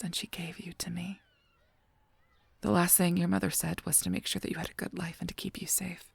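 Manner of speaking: hushed, breathy whisper. Acted. Guardian angel whispering the mother's story. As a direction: keep it all under the breath.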